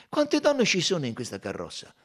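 amused Belgian sleuth pointing out the clue; Poirot's voice. A narrator's reading.

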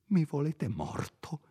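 a fior di labbra, atterrito; sussurro spaventato. Acted. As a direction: implora in un soffio, terrorizzato. Curato terrorizzato minacciato. (sussurro atterrito del curato)

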